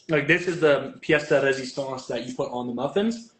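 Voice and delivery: put-on a playful French accent on pièce de résistance; lightly put-on French accent, savoring the words. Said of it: "the French accent come out".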